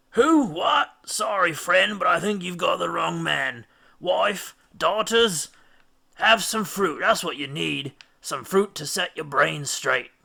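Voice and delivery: high, loud, befuddled friendly voice; lightly voiced dazed sailor pushing fruit; dazed fruit-eater. A narrator's reading. Drugged Eurylochus offers fruit.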